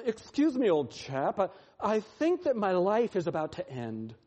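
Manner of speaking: wordy, polite gentleman in distress, lightly acted; hammed-up courteous understatement, starting high; mock politeness. Preacher mocking a wordy prayer in distress, absurdly polite. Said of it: "It's not".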